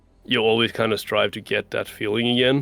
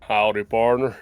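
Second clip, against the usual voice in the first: put-on 1 Southern accent. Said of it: "try a Southern accent?".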